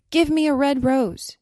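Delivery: high, loud plea; crying out. A narrator's reading. Nightingale begging a rose tree, crying out. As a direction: call out the demand, high and loud. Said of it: "she cried".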